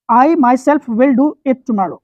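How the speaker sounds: each word drawn out very slowly; slow dictation. Shown as a demonstration. Teacher reading an example sentence to students, slow dictation. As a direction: read the example so they can write it.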